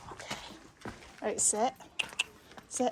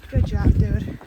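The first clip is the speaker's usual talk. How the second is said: loud praise; 13 dB louder, slower than usual. Real, not acted. Praising dog loudly after climb.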